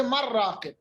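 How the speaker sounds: مر راقن with the n merged into r; assimilated mur raaqin. Shown as a demonstration. Teacher shows the rule as it would apply, مر راقن. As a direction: say مر راقن, nun fully swallowed into the r. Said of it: "اصل میں ہونا چاہیے".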